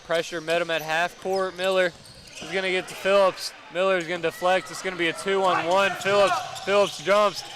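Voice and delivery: play-by-play building to an excited call; live play-by-play. Real, not acted. Commentator follows a two-on-one to a block, building play-by-play. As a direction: call the action live, rising into the big moment.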